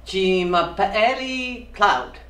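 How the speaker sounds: slow careful French; French demo. Shown as a demonstration. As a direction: model the French line slowly. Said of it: "so just repeat after me".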